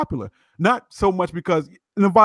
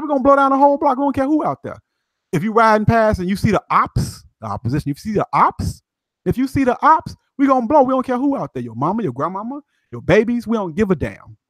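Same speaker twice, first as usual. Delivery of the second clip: hyped gang member; 6 semitones higher than usual. Retold or imitated. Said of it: "He said".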